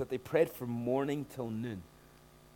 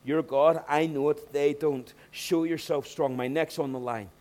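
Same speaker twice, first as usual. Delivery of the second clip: bold prayer; 3 semitones higher, 7 dB louder than usual. Retold or imitated. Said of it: "and he says".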